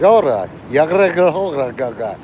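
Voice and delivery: mock Russian gibberish; invented guttural gibberish; made-up language. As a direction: babble nonsense syllables as a pretend language. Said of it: "they make up a language".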